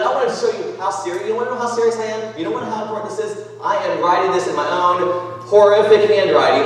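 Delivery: animated preacher playing Paul; earnest Paul. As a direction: convince them how serious you are. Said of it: "He's like".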